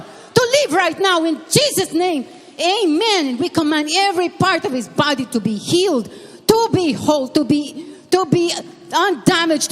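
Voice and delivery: preacher prays healing over the pastor, fervent; healing prayer. Real, not acted. (masidhing panalangin ng paggaling)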